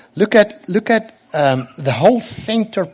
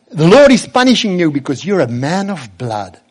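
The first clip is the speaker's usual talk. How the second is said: mildly raised, condemning voice; accusing curse; 3 semitones higher, 4 dB louder than usual. Acted. Cursing man tells the king he is punished, mildly raised accusing voice. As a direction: pronounce judgement with some force, easing off at the end. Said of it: "And then he says".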